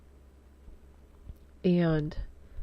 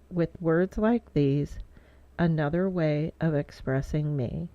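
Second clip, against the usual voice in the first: poem reading. Real, not acted. Writer sharing a poem written for kids, measured recital. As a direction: read your poem out in deliberate, lilting phrases.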